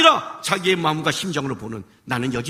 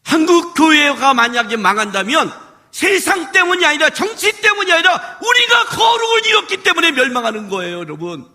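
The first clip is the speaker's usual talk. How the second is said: preaching shout; 8 semitones higher, 4 dB louder than usual. Real, not acted. Preacher warning church.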